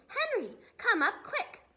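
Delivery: high, loud urgent call; yell. A narrator's reading. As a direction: yell for help from another room. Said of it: "And she yells".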